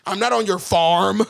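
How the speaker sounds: a mock retort, cracking up; laughing reply. Quoting the game's character to his co-host, laughing. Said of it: "It's like".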